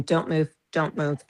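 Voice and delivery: flat, even, on one note; monotone voice. Retold or imitated. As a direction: repeat it without any lift. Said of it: "and it was monotone".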